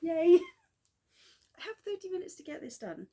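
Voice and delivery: fast, loud, high panicked laugh-talk; giddy, frantic rush against the clock. Real, not acted. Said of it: "if you can hear the panic in my voice".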